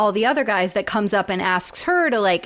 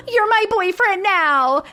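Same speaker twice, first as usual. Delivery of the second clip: higher, slow, put-on little girl; 10 semitones higher, slower than usual. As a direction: claim him sweetly like a smitten kid. Retelling the little girl's line.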